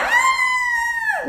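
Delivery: put-on a high, whining toddler cry; whiny crying wail. Little daughter starting to talk while crying. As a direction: squeal it like a little girl about to cry. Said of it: "falar chorando".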